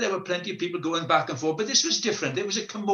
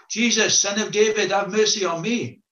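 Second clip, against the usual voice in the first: raised, higher, pleading call; desperate shout; 6 semitones higher than usual. Acted. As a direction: cry out for mercy across the crowd. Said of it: "he starts to shout out".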